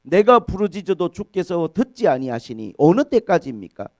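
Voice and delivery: loud prophetic plea, easing at the end; protesting prayer. Retold or imitated. Habakkuk demanding God's answer, loud pleading prayer. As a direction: call out to God, then let it fall. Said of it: "하박국 선지자는 그렇게 기도합니다".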